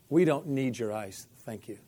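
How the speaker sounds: flat, blunt no-thanks to the helper; blunt refusal. Retold or imitated. Speaker to lady with ice, bluntly refusing. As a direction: turn down the ice without softening it. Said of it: "I'll be nicer next time".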